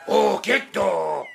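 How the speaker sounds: loud, high, slow whoa to a horse; halting shout. Acted. Driver halts the horse on arrival, drawn-out shout. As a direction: holler it long and high to stop the animal.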